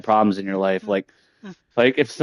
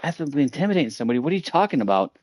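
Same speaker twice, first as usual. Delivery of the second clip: fast, higher, disbelieving repeat; incredulous echo; 4 semitones higher, 4 dB quieter, faster than usual. Retold or imitated. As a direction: throw the accusation back in disbelief.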